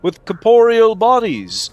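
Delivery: high, loud grand villain speech; booming echoing villain monologue. Acted. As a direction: proclaim it like a gloating Bond villain. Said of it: "Bond villains do just sound like that".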